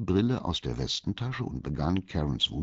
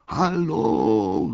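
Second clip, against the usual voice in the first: high, loud hail; raised, carrying call; 6 semitones higher, 7 dB louder than usual. A narrator's reading. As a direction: call out to passers-by for attention. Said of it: "rief Walter".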